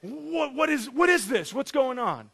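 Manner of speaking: hammed-up confusion, stumbling over "what"; freaking out. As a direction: stammer out startled questions. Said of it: "she's just freaking out".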